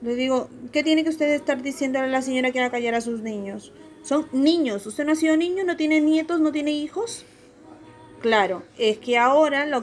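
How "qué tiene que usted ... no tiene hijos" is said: mildly raised, fast indignant rebuke; telling off a grumpy stranger, half-acted; indignant retold scolding. Scolding a man on the bus, indignant retold rebuke.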